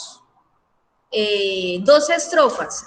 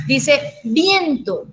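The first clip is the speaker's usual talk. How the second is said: very slow, stretched teaching delivery; drawn out for the class; 3 semitones higher, much slower than usual. Shown as a demonstration. Teacher stretches the word for students, slow and deliberate. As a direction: stretch each sound so students hear the ending. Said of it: "E N T O".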